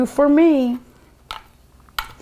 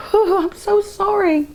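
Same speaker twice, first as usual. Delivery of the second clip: laughing apology; 10 semitones higher than usual. Real, not acted. Recovering from laughing fit.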